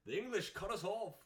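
high, wailing mock Irish accent; hammed-up Irish accent. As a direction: lament in an over-the-top Irish accent. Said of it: "you just sounded straight from Ireland".

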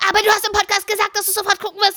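high, fast mock accusation; hammed-up sister on the attack, pitched high; accusing sister. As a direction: pounce on her like the sister. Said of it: "Die so".

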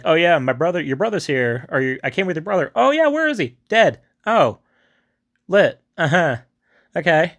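hammed-up chirpy mockery; sarcastic mock dialogue. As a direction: lampoon the cheerful-then-dead exchange. Mocking the awkward exchange.

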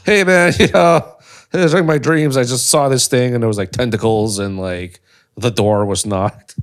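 lightly voiced Johnny rambling in his sleep; mock late-night podcaster. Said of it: "Johnny wouldn't shut up".

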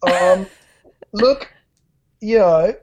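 tactful hedging in short hesitant pieces; diplomatic. Real, not acted. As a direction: pick your words carefully, pausing between them. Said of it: "I can hear you trying to be diplomatic".

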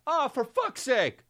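high, drawn-out annoyed sigh; fed-up passenger muttering high; exasperated groan. Retold or imitated. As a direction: moan it from the back row. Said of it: "this is me in the back".

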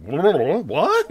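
a high, laughing "What?"; laughing disbelief. Retold or imitated. Hearing an actor's real British accent, laughing disbelief. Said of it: "and it's like".

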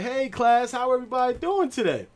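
high, sing-song greeting to the class; chirpy teacher greeting a class of kids. Retold or imitated. The pre-K teacher greets her class on camera, high and sing-song. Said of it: "So Miss Commander's like".

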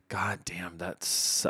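a hushed, breathy whisper. Real, not acted. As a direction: drop to a whisper, caught off guard. Overwhelmed, voice drops away.

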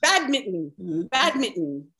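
badminton ending "mit-n", no vowel before the N; swallowed T. Shown as a demonstration. Guest shows friends badminton rhymes its ending with Britain. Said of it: "Like Britain".

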